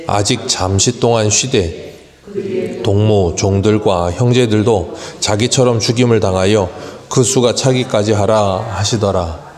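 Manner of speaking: scripture reading. Acted. Pastor reads Revelation to the church in a solemn reading voice. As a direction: read the verses solemnly to the congregation. Scripture read aloud in service.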